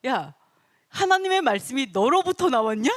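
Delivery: mock-angry rhetorical question; worked-up Paul. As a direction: demand it like a fed-up apostle. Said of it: "사도 바울이 얼마나 열받았냐".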